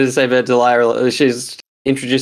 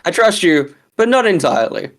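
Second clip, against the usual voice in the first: Loki voice; 5 semitones higher than usual. Retold or imitated. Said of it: "a Loki moment".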